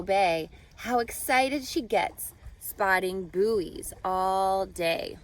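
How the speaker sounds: lilting rhyming read-aloud voice; reading to children. A narrator's reading. Teacher reading a rhyming book to students, storybook lilt. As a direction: read the rhymes to the class with a gentle bounce.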